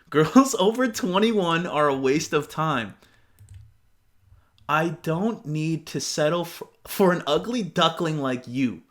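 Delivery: slow, sneering put-on voice; lightly voiced smug jerk, drawn out; mocking the guy's arrogant text; mocking the creep.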